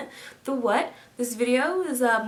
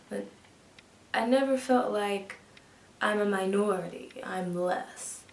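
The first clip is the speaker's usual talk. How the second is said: put-on calm older woman's voice, measured; a lightly voiced older pioneer; Annie J Easley. Actress plays Annie Easley recalling her NASA years, measured storytelling. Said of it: "an homage rendition to Annie J Easley".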